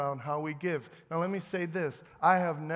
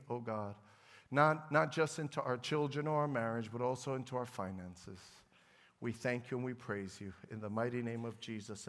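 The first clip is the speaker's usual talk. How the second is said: prayer. Acted. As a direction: pray over the people, gently. Pastor prays over congregation.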